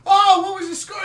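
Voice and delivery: high, loud excited asking; bubbly shouted question; giddy question. Retold or imitated. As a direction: still riding the high. Asking mid-celebration.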